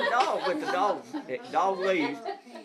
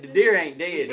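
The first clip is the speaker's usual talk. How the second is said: retold holler; 6 dB louder than usual. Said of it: "I had done holler and told him".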